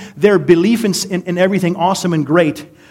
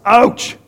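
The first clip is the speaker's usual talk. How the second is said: higher, quick exclaimed ouch; mock ouch; 6 semitones higher, 4 dB louder than usual. Preacher reacting to Paul's jab, mock pained ouch. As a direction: yelp ouch as if stung by words.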